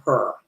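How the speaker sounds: her, hair said as "her"; drawn-out colloquial "her" for hair; dialect "hair". Shown as a demonstration. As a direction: say hair with an r-coloured "her" vowel. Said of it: "that's how we say it".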